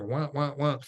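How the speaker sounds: muted trombone wah wah; a lightly voiced cartoon teacher wah; Charlie Brown's teacher wah. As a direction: mimic a droning teacher's wah wah. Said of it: "like Charlie Brown's teacher".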